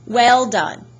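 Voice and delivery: put-on emphatic British-accented approval; strange British accent. A narrator's reading. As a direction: congratulate him in an odd British accent. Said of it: "He had a strange accent. British, maybe".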